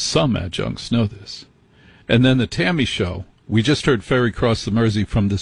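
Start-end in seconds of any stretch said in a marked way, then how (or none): 0.0-1.5 snooty quote. Retold or imitated. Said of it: "And he goes".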